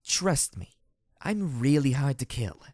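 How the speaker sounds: slurred, slow drawl. A narrator's reading. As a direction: slur the words heavily. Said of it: "she said in a slurred voice".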